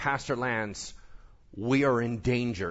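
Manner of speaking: ordinary talk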